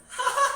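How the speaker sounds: very high, loud shriek of laughter; loud squeal of laughter. Real, not acted. Member laughing at the snack story, shrieking laugh.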